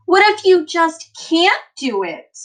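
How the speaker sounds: high, loud anxious question; worried question. Acted. Teacher voicing a child's doubt, high and anxious.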